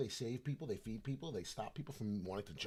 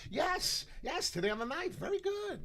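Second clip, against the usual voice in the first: much higher, louder yes; thrilled to remember the announcement day; excited yes; 5 dB louder than usual. Real, not acted. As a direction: burst out with delight. Realizes announcement is today.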